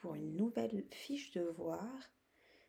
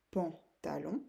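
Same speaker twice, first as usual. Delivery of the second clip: syllable by syllable. Shown as a demonstration. Teacher giving pupils an example, syllable by syllable. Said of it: "taper dans les mains pour vous aider".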